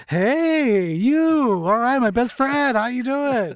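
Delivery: loud, high, gushing fan greeting; overeager fan. Retold or imitated. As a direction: gush at them like a starstruck fan. Mimics overeager stranger greeting celebrity.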